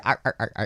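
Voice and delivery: quick mock "arr, arr, arr" brush-off; imitating a busy wife's quick brush-off; wife's dismissive noise. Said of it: "she'll be".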